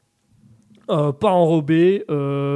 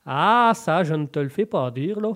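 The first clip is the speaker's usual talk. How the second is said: put-on Québécois agreement; mock French-Canadian accent. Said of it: "je fais l'accent québécois".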